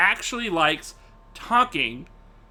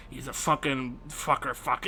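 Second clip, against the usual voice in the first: much softer and lower, swearing under the breath; hushed swearing; 7 semitones lower, 9 dB quieter than usual. Retold or imitated. Cousin hiding his swearing from his parents, hushed and low. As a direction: curse quietly so mom won't hear. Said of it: "it's real quiet".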